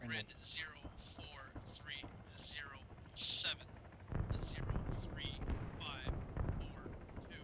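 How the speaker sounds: grid read out digit by digit; measured radio call, pauses between numbers; slow radio dictation. Real, not acted. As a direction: space out each digit for the listener.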